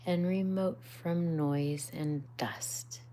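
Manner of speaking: ASMR whisper reading; whispered narration. A narrator's reading. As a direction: read it hushed, as if to a sleeping child.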